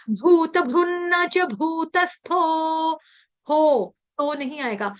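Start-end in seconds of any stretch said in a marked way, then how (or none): 0.1-2.9 slow, with a breathy भ in भूत and a double न in भृन्न; slow pronunciation demo. Shown as a demonstration. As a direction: say भूत भृन्न च भूतस्थो syllable by syllable. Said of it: "जैसे मैंने अभी बता दिया". (धीमा, साफ़ उच्चारण)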